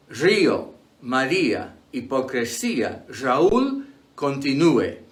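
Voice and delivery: río, María, Raúl with the accented vowel stressed apart; vowels in separate syllables. Shown as a demonstration. Teacher giving exceptions like María, vowels split into two syllables. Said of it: "have a different pronunciation".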